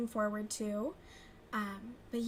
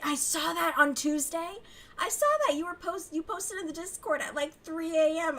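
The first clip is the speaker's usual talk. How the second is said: teasing; 6 semitones higher, 5 dB louder than usual. Real, not acted. Teasing friend about late post.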